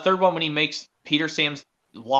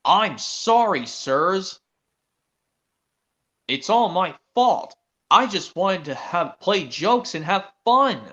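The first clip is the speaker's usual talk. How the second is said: mild sorry Thomas; 3 semitones higher, slower than usual. Acted. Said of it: "And Thomas says".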